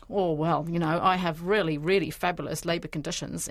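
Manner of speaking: lightly put-on Italian accent; a hint of an Italian farmer's accent. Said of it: "in an Italian accent".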